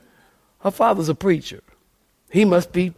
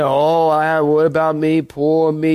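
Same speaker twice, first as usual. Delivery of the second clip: self-pitying whine; 3 semitones lower than usual. Retold or imitated. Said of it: "You're a spiritual Eeyore".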